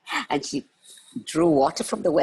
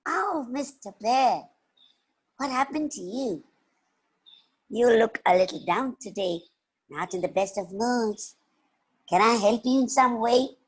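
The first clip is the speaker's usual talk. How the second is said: put-on higher, concerned child's voice; kind little girl; 7 semitones higher than usual. Little girl comforting a gloomy bear, kindly. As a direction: gently ask after someone's troubles.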